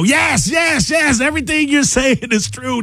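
high excited mock yell of yes, yes, yes; reliving shouting agreement at the radio; retold yelling at radio. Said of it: "I was screaming at the".

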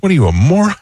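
a hammed-up dad's rebuke; mock dad scolding. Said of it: "My father goes".

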